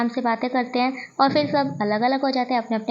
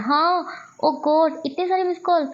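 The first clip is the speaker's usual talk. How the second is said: drawn-out gasp of words, then higher; shocked realisation; 4 semitones higher than usual. Acted. Wei Ying spots all the missed calls on his phone, shocked. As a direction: act startled, stretching the first words.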